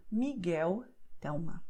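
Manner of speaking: Miguel and Thelma with L turned to "oo"; Miguel, Thelma with a vowel-like U for L. Shown as a demonstration. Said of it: "the sound will be U".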